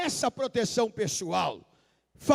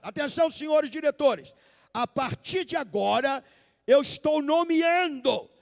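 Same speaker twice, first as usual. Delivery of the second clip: anúncio em voz alta; 3 semitones higher than usual. Retold or imitated. Judeu anuncia promoção aos diretores.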